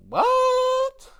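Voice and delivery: high, loud disbelieving what; shocked what. Retold or imitated. Seeing them fall on the mat, a high shocked what. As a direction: yelp it out in disbelief. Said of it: "I was like".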